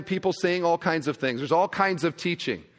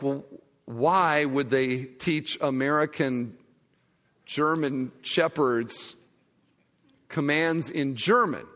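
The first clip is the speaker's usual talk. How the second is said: puzzled question; 3 semitones lower, slower than usual. Retold or imitated. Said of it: "And I was like".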